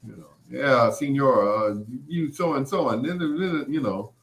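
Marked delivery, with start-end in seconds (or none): 0.5-2.9 a lightly voiced, unsmooth dad; not smooth at all. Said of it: "not smooth at all".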